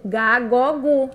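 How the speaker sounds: "gá, gó, gu" with a hard G; teacher demonstrating hard G in "gá, gó, gu"; hard G syllables. Shown as a demonstration. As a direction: sound out "gá, gó, gu" as separate syllables. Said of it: "é o sonzinho do G".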